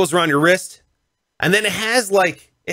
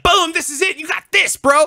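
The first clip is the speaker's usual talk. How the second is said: hyped-up encouragement; 13 semitones higher than usual. Retold or imitated. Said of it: "He's like".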